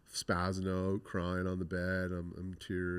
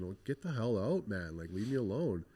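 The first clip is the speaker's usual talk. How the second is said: retold irritation; 3 semitones higher than usual. Upset youth wishing the guard would leave, mildly irritated. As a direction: replay being fed up, pitch lifted.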